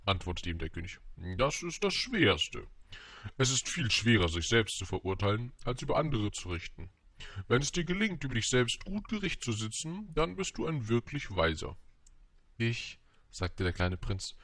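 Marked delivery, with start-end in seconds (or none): 1.4-11.8 lightly voiced king, measured and lifted; wise king. King teaches the prince about self-judgment, lightly acted solemn lesson. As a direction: pronounce it like a sage monarch.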